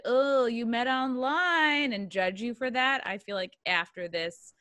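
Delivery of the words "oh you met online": judgy. Retold or imitated. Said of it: "some people might be like".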